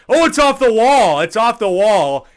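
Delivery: loud, high excited shout; excited call. Acted.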